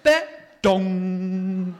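high hit, then a long ringing dong; loud cartoon impact with a drawn-out ring; imitated crash noise. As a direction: mimic a bang and its ringing echo. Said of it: "and then it's like".

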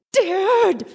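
high, loud cry of alarm; alarmed yell. Retold or imitated. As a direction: shout at dad as the engine dies. Engine cuts out.

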